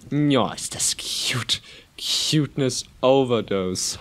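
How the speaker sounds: slow unvoiced whisper of delight; breathless whisper; awed whisper. Real, not acted. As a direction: melt over the cuteness in a whisper. Overwhelmed by cute cats.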